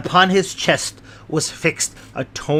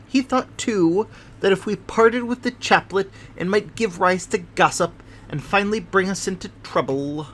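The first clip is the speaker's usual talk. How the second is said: a touch higher, fussy little man telling his tale; Thaddeus Sholto, lightly voiced; 5 semitones higher than usual. Little man explains the treasure to his guests, lightly voiced. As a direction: lightly play the nervous little host.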